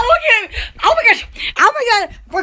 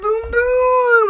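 booming thunder noise, second one higher; imitated thunder boom; 4 semitones higher than usual. Retelling the storm to viewers, imitated thunder booms. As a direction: voice the thunder, drawn out and rising. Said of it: "and then it went".

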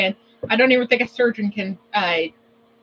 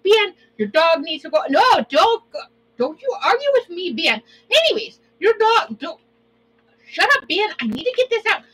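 mock scolding; 6 semitones higher than usual. Keeps mock scolding Ben.

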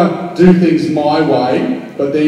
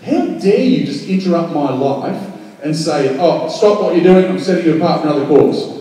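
mock indignation. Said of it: "and you think".

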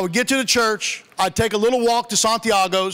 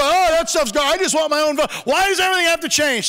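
complaining dad; 6 semitones higher than usual. Retold or imitated. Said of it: "He looked at me".

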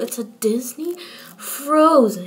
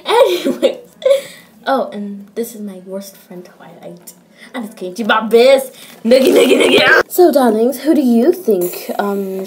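Rarity. Pretend. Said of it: "It's me, Rarity".

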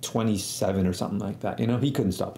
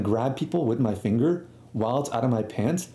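normal talking voice

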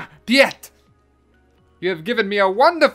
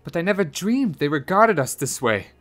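raised-pitch wounded protest; dramatized higher-voiced dismay; unhappy cry; 7 semitones higher, 6 dB louder than usual. A narrator's reading. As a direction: cry out, hurt and disbelieving. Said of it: "cried the unhappy Anatole".

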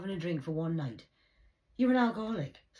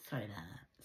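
lower, softer sarcastic sorry; lower mock apology; 8 semitones lower, 9 dB quieter than usual. Vlogger mock-apologising to viewers, lower and softer. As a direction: drop the voice to fake contrition. Repeats apology in varied voices.

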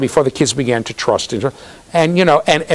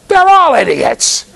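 high, loud, drawn-out mock yell; indignant child's outburst; 13 semitones higher, 6 dB louder, slower than usual. Stubborn girl dismissing the other kids' answers, indignant yell. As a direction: shout it in a child's exasperation.

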